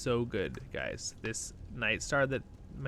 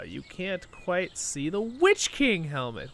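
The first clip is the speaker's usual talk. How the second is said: normal talking voice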